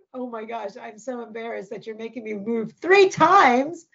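put-on loud, livid, seething, fed-up complaining. Retelling a complaint made at dinner: imitating livid Gabriel. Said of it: "Poor Gabriel was livid".

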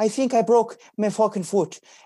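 put-on Irish accent. Retelling a coworker's words after a jet ski accident: Kevin's Irish accent. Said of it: "his accent to me was".

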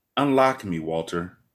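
really calm, soft, low voice.

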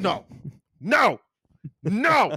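loud, shrill, furious outrage. Reacting to a Rolling Stone music list, angry.

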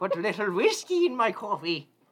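shrill, booming, high put-on leprechaun Irish accent. Joking with a co-host about Irish coffee: leprechaun Irish accent. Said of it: "That's my best leprechaun".

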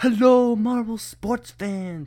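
very high, loud, drawn-out scream. Retelling how Johnny Marble comes in: imitating Johnny Marble screaming. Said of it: "when he comes in screaming".

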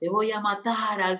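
joking, high-pitched yell. Retelling yelling from a balcony at people blocks away while being filmed, retelling a playful shout. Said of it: "y gritaba".

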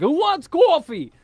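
aggressive scream, very high, very loud. Describing how he acts about coffee after waking, retelling an aggressive coffee shout. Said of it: "he just gets aggressive and he's like".

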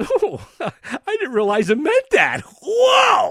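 facetious awe, very high, drawn out and swooping. Imitating people who come to the bible flippantly: facetious imitation of amazement. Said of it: "I know I'm being facetious here".

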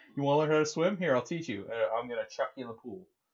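breezy, offhand, careless instructor voice. Acting out a swim lesson after praising a carefree teacher: imitating Mama G. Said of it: "how Mama G just didn't give a fuck".

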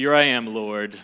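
deep, grand heroic voice. Speaker imagining how Moses answers God, in a hero's voice. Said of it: "That's my best hero's voice".

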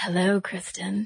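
breathy, airy, flirtatious, seductive voice. Explaining vocal qualities, the speaker demos a breathy flirtatious voice at the other speaker. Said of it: "with those breathy voices".

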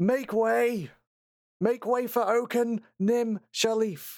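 very high, shrill shout. Game narrator voicing a character leading the party forward, shouting. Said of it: "is just shouting".

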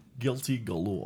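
hushed, soft, suave spy voice. Suggesting a name to the others, say it in a James Bond voice. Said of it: "Say it in a Bond voice".

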